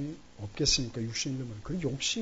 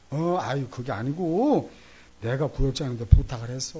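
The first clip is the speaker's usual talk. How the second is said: hasty loud explanation; 7 dB louder than usual. Retold or imitated. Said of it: "제가 교통정리를 했죠".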